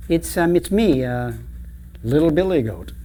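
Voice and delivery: lightly voiced small goat, faltering; timid little goat. Little billy goat answering the troll, lightly voiced and hesitant.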